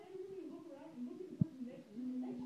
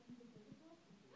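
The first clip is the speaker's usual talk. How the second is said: much softer, calmly understated insult; calm and subtle; 3 semitones higher, 11 dB quieter than usual. Retold or imitated. Comic tells coworker her hair looks bad, calmly and softly. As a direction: deliver the insult gently, almost kindly. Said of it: "very calmly, very subtly".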